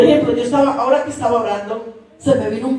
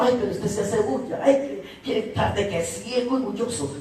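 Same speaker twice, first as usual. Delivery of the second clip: grumbling crowd; 3 semitones lower, 8 dB quieter than usual. Acted. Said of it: "la gente dijo".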